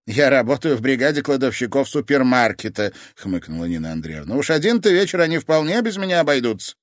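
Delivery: put-on older woman, dry and demanding; grandmother voice. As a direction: brush it off, then question her. Grandmother explains, then demands.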